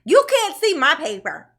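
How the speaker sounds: mock a sulky man refusing to show his paper; mocking Daryl. Commentator mocking Daryl defying the judge, whiny. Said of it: "He's like".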